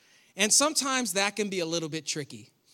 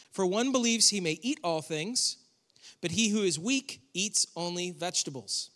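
measured reading with pauses between phrases; scripture reading; 2 semitones lower than usual. Acted. Preacher reading Romans fourteen to the congregation, measured scripture reading. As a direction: read the verse out deliberately, phrase by phrase.

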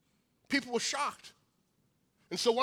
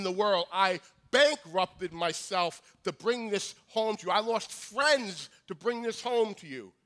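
distressed pleading nobleman; 2 semitones higher, 3 dB louder than usual. Acted.

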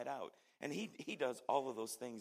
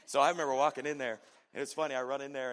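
excited telling; 3 semitones higher, 13 dB louder, faster than usual. Real, not acted. Excited storytelling climax.

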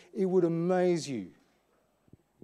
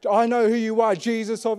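louder, higher show of bluster; puffed-up demon; 4 semitones higher, 6 dB louder than usual. Acted. Little demon facing Jesus, blustering for authority. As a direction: challenge him with your chest puffed up. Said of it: "puff his chest up".

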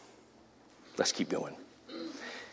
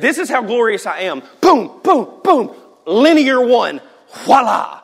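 high, loud booming God; excited showing off; 7 semitones higher, 6 dB louder than usual. Acted. Preacher acting God dazzling Moses, loud and excited. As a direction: boom it out with glee.

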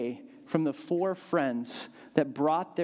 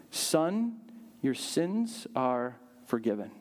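tender Jesus; 4 semitones lower, slower than usual. Acted. Jesus speaks to the paralytic.

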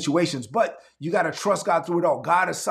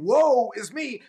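slow, drawn-out woeful sigh; mock lament; 5 semitones higher, slower than usual. Shown as a demonstration. Preacher telling sufferers what not to say, slow mock lament. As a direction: stretch it like self-pity. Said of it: "instead of saying".

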